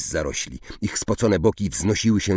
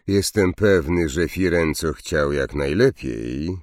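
gloomy. Acted. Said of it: "powiedział ponurym tonem".

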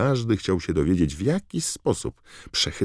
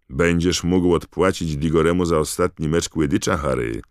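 squealed; 6 dB louder than usual. Acted. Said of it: "zapiszczała Katy Bell".

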